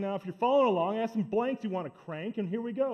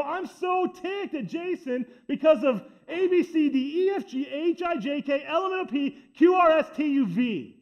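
mock ticked-off rant; 5 semitones higher than usual. Churchgoer venting about Jason, hammed-up annoyed rant. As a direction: rattle off the alphabet of gripes in mounting annoyance.

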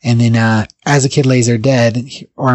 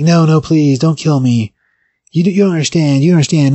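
higher-pitched begging, lightly acted; retold pleading; 5 semitones higher than usual. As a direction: plead for mercy, imitating the victim. Beaten old man begs for life.

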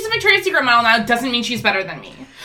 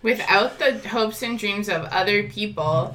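slow theatrical villain menace; 3 semitones lower, 6 dB quieter than usual. Acted. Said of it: "still trying to do my evil villain speech".

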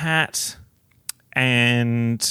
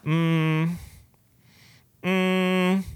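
unimpressed; 5 semitones higher than usual. Retold or imitated. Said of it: "I was like".

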